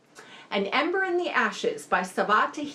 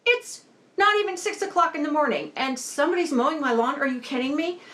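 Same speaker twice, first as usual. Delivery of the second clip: fast, raised-pitch indignant rant; exasperated quoted rant, pitched up; livid outburst; 6 semitones higher, faster than usual. Retold or imitated. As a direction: sputter it out like someone woken way too early. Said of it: "And she's livid".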